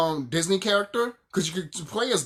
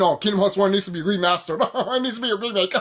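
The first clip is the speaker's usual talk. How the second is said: mocking imitation; faster than usual. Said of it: "these little stupid motherfuckers".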